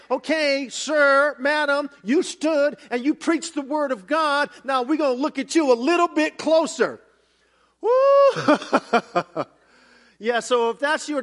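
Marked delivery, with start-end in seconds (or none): 0.1-7.0 raised, louder voice of a judge calling a preacher to account; a lightly voiced stern judge addressing the pulpit; mock judgment. 7.8-9.4 high, loud whoop breaking into a laugh; sudden high whoop of laughter. Real, not acted. Reacting to his own warning.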